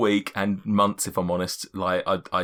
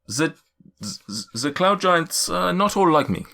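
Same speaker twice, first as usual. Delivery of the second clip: cloud giant's voice. Acted. Cloud giant warning the party about giants, stately. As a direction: lay out the giant races gravely.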